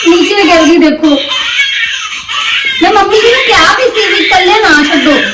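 high-pitched, tearful-sounding protest; distressed complaint. Acted. Mother reports baby's fall to husband. (ਦੁਖੀ ਹੋ ਕੇ ਉੱਚੀ ਸੁਰ ਵਿੱਚ ਸ਼ਿਕਾਇਤ)

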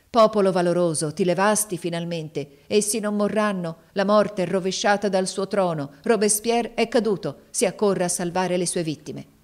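loud proclaiming shout. Acted. Nicot shouts to the crowd from the cart, loud. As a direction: rouse the crowd. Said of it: "Così gridava dalla carretta".

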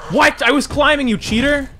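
high, indignant shouting. Real, not acted. Hit while climbing, accuses game.

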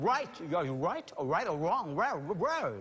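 "right" and "wrong" with a drawn-out, overdone English r, very slow; mock a singer bending every r, stretched and laughing; exaggerated English r. Shown as a demonstration. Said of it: "W R ไปหมด มันเป็น raw". (ล้อการออกเสียง r แบบฝรั่งเกินจริง ลากช้ามาก)

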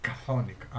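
"Chthonic" as "ka-THON-ik"; silent-H pronunciation. Shown as a demonstration. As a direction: say "Chthonic" with a hard k, then "thonic". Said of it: "το H είναι διακοσμητικό". ("Chthonic" σαν «καθόνικ», με άηχο H)

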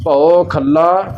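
slow ਖੱਲਾ with a doubled l; tight pronunciation. Shown as a demonstration. Teacher repeating the phrase correctly, tightened ਖੱਲਾ. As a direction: hold the l in ਖੱਲਾ briefly. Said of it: "ਥੋੜ੍ਹਾ ਕੱਸ ਕੇ".

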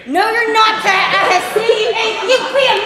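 loud retort; yelling back. Acted. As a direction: shout him down. Wife yelling in argument.

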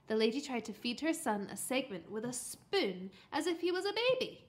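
plain reading voice

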